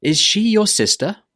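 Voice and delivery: "Is she your sister?" high, rising at the end; rising intonation. Shown as a demonstration. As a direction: lift "sister?" at the close. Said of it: "needs to go up at the end".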